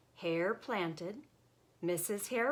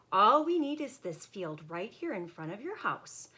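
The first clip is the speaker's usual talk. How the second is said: sly Hare voice; 4 semitones higher, 3 dB louder than usual. Acted. Hare persuading Bear.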